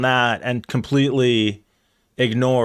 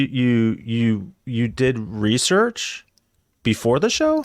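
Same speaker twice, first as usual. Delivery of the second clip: teasing rising disbelief; mock surprise; much slower than usual. Real, not acted. Teasing co-host about research.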